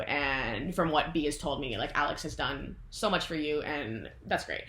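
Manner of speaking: softly voiced mother telling her son she loves him; tender mother. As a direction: reassure your son gently. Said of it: "she's like".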